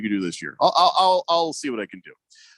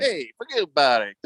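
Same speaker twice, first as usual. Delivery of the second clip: put-on lightly done New York accent; a casual New Yorker brush-off. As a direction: toss it off in mild New Yorker. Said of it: "That was New York".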